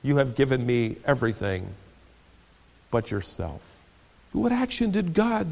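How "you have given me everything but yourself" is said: softer, lower and sad-edged; quietly said. Retold or imitated. Wife answering her husband's list, quiet and calm. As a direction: let it fall quietly. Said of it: "she quietly said".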